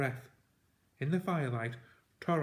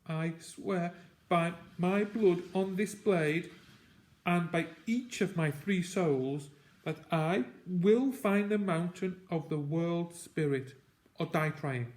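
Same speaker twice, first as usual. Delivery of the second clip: a hint of trembling as he swears; unsteady voice; 5 semitones higher than usual. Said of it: "In an unsteady voice".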